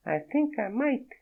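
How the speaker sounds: a startled French woman, voiced high; French accent. Naked woman startled by Fredo, in a high French accent. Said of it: "The accent was real".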